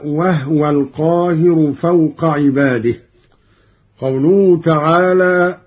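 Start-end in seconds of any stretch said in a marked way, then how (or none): 0.0-2.9 وهو said "wahwa", no vowel on the ha; silent ha. Shown as a demonstration. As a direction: close the ha of وهو into the waw. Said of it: "ومثلها قوله تعالى".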